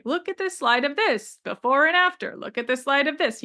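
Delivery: imitating a show-off presenter, lightly; a touch of boastful slide-show patter; mildly mocked bragging. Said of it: "this braggy".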